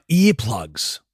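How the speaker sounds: "earplugs" with a long EE at the start; corrected pronunciation. Shown as a demonstration. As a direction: say "earplugs" as EE-plugs, not air-plugs. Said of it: "you say earplugs".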